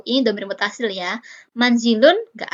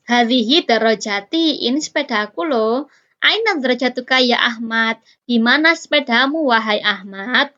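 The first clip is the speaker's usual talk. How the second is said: ustazah menyapa Ahmad. Acted. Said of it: "Jadi gini, jadi begini".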